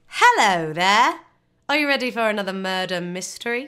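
fake, put-on British accent. Host welcoming the audience to another murder mystery, in a put-on British accent. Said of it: "Do you like my British accent?".

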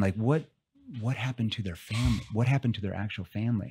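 sounding worried. Showing a listener how a change of tone helps people open up: concerned tone. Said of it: "now I'm shifting into a concern tone".

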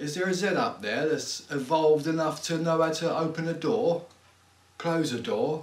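put-on acted drunk manner of speaking. An actor replays a scene from an episode: playing drunk. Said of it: "Are you drunk?".

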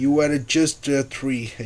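ordinary delivery

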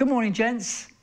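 high, loud, cheery tone.

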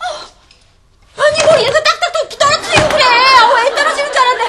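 high, loud, shocked yelp. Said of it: "깜짝이야".

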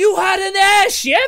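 shrill, very high, very loud gnome-like yell. Game master voicing a gnome who interrupts a recap: yelling. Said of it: "this gnome yells".

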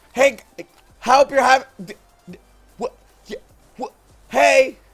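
mock choppy, glitchy speech cutting in and out. Showing another player how their breaking-up voice sounds: imitating a choppy breaking-up connection. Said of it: "This is what you sound like".

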